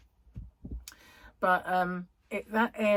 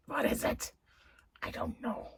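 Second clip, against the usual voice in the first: whispered to herself; 8 semitones higher than usual. Real, not acted. Muttering to herself, forgetting.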